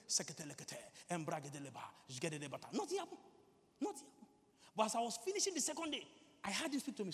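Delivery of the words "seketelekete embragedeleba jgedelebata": low, even run of prayer syllables; praying in tongues. Retold or imitated. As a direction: re-enact routine prayer in tongues. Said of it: "pray in tongues for five hours".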